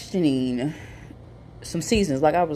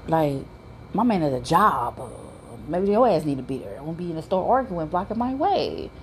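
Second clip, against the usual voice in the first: sassy dismissal; 4 semitones higher than usual. Retold or imitated. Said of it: "I'm like".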